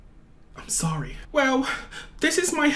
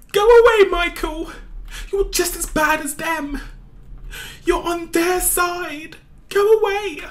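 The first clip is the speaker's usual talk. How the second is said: angry yelling; 7 semitones higher, 4 dB louder than usual. Acted. Girl yells at Michael.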